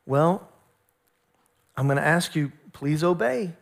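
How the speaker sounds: gentle, measured parental request; nice voice. Retold or imitated. Father asking daughter to obey, restrained nice voice. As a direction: keep it patient and nice. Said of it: "I'm gonna say it with my nice voice".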